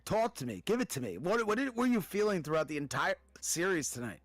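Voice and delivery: talking through the hiccups; words broken by hiccups. Real, not acted. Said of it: "Sounds like you got the hiccups there".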